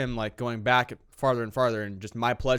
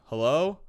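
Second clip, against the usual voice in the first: hello with a rising question tune; 4 semitones higher than usual. Shown as a demonstration. Showing hello as a question when walking in. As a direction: ask it, rise on hello. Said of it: "hello is, like, a questioning thing".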